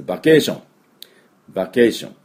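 バケーション with a Japanese B and full syllables; Japanese katakana reading. Shown as a demonstration. Teacher giving the easy loanword to learners, Japanese katakana reading. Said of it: "もう日本語にもなってます".

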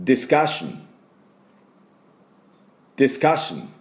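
ディスカッション stressed on カ, no vowel after ス; teacher modeling discussion; model pronunciation. Shown as a demonstration. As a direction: model ディスカッション for students to repeat. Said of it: "私の後について発音いきましょう".

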